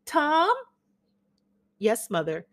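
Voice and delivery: faded Southern belle charming her son's guest; gushing Southern mother. Acted. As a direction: flutter and fuss over the gentleman caller. Amanda calling Tom.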